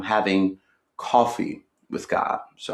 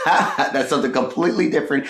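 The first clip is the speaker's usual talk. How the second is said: laughing; 5 semitones higher than usual. Real, not acted. Repeats phrase with a laugh.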